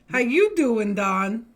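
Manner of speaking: loud, high hello to a friend; cheery shout-out; excited greeting. Real, not acted. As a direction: call out a big hello to Don. Greeting Don loudly on stream.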